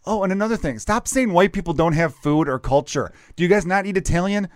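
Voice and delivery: mock indignation. Retelling his comeback to comedian friends, mock indignant. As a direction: fire off questions in playful outrage.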